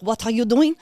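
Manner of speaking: sharp, loud demand; condescending coworker. Retold or imitated. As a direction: bark it at her like a boss. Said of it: "puts his hand on his apron and was like".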